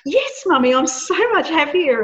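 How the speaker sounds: put-on chirpy child beaming at mummy; imitating happy daughter. A daughter tells mummy she feels happier, in a high cheerful child voice.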